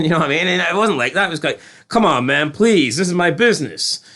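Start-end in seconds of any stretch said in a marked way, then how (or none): 1.9-4.0 lightly acted appeal; mock polite pleading. Business owner asking a mobster to leave him alone, mild mock pleading. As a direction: plead nicely, as if imitating him. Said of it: "he was asking him nicely".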